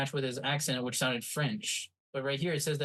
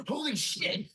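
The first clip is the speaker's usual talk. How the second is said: stunned delight; 11 semitones higher, slower than usual. Retold or imitated. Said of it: "I was like".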